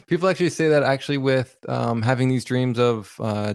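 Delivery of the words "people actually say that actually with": words breaking into real laughter; laughing. Real, not acted. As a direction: laugh through the line, quick and high. Laughs while restarting his sentence.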